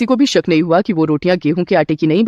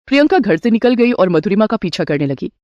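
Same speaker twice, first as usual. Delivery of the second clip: usual speaking voice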